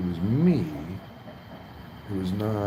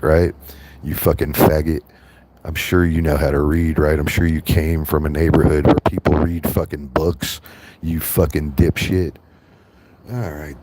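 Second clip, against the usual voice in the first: angry yelling; 8 dB louder than usual. Real, not acted. Streamer yelling insults at Greg in his chat, angry loud.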